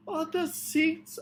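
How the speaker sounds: high, loud exasperated call; urgent cry. A narrator's reading. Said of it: "I cried".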